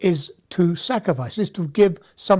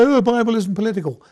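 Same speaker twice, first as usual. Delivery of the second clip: mock protest; 4 semitones higher, faster than usual. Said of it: "don't go up in arms and say".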